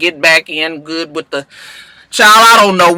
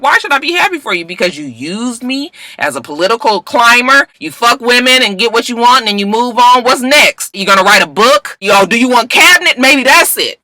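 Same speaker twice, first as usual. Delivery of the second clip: higher, fast bitter confrontation; mock angry accusation; 5 semitones higher than usual. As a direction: throw it back at him in mock anger. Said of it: "She was like".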